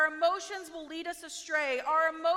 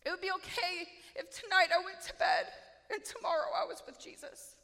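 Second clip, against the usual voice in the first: crying; 3 semitones higher than usual. Retold or imitated. Tearful prayer to Jesus.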